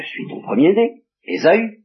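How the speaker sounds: voix nettement plus aiguë, le fils qui s'annonce fièrement; Ésaü qui se présente. Acted. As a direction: jouer Ésaü, haut et clair. Esau answers his blind father. (Ésaü se présente à son père, voix aiguë et fière)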